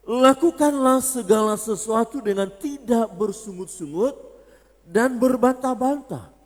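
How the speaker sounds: loud, high scripture proclamation; preach. Acted. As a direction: proclaim the verse slowly at full force. Reads the verse aloud.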